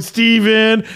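put-on high, mischievous kid call; taunting son. Dad imitating son running round the house, taunting. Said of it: "running around the house and going".

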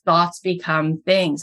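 slow, deliberate pronouncement of Thoughts become things; a slow Oprah quote, lightly voiced; quoting Oprah. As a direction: lay out Thoughts become things slowly, word by word. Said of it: "when you listen to Oprah talk and she says".

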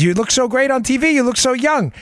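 high-pitched, gushing mother-in-law imitation; mother-in-law's accent. Mother-in-law compliments her son-in-law on TV, imitated accent. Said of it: "in her accent, she's like".

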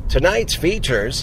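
slow, measured recorded-listing voice; movie-phone announcer. Retold or imitated. Playing the movie phone greeting for co-host, slow announcer. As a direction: announce it slowly like a movie hotline. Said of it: "movie phone".

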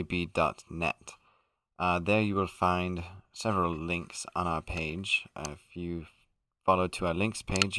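a hammed-up, posh-sounding British podcast host; put-on British accent. Podcast host greets his listeners, in a put-on British accent. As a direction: play a mock British gentleman all the way through. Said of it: "We just find it enjoyable to speak this way".

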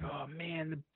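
high, whiny frustrated groan at the missed shot; exasperated, near-whining complaint; upset and frustrated. Retold or imitated. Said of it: "And now I'm all upset".

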